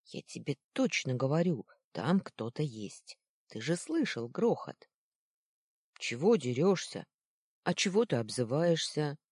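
put-on petty kid argument, half-shouted; squabbling boys. Boys quarrelling over what they heard, mildly heated.

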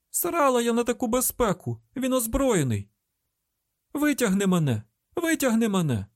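very high, desperate cry; frantic high-pitched pleading; panicked screaming. A narrator's reading. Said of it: "Не кричи".

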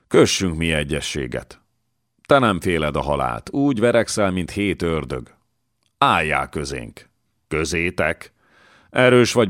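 lightly voiced lord, bold and coaxing; a light touch of a swaggering nobleman recruiting; coaxing a strong fighter to join, lightly voiced; scheming young lord. Miklós voiced in reading.

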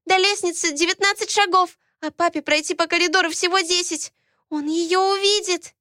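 put-on high, loud childish urgent cry; a small girl frantic with fear; panicked little girl. Twins beg Alaena to flee, panicked child voice.

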